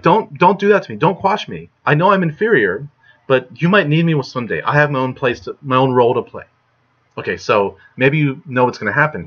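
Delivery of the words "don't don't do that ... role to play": higher, lightly voiced little mouse begging; pleading mouse. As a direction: squeak out a plea as the small mouse. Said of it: "The mouse is like".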